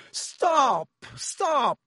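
high, drawn-out cry of alarm; screamed. A narrator's reading. Panicking teacher yelling at duelling pupils to stop, screamed. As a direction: scream it high, long falling cries. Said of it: "screamed Lockhart".

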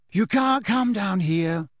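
Ginny calling to the crowd. A narrator's reading. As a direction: call out to turn the crowd away. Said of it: "Ginny was calling".

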